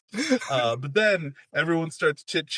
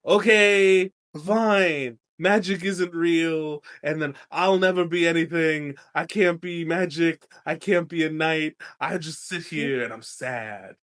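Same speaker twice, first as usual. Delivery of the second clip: sulky Bran; 2 semitones higher, 3 dB louder than usual. Retold or imitated. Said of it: "Bran's like".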